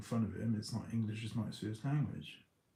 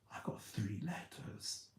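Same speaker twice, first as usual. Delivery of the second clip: whisper; 2 semitones lower, 10 dB quieter than usual. Real, not acted. Happy memory, sudden whisper.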